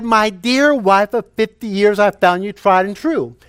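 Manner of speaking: repeating for hard-of-hearing wife. Retold or imitated. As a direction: repeat the tribute so she can hear. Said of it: "she had difficulty hearing".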